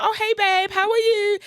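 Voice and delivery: high, loud overjoyed woman greeting a friend; imitating a lady feigning delight; lady's voice. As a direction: gush like you spotted an old pal. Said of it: "she's like".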